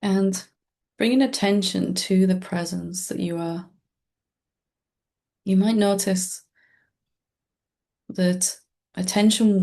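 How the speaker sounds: calm meditation guide with long, restful pauses; guided meditation. Acted. Teacher leading listeners into presence with the breath, calm guided-meditation voice. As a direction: guide listeners gently, leaving space between short phrases.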